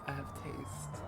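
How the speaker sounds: smug, self-satisfied claim; proud. Acted. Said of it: "Viva sounds proud".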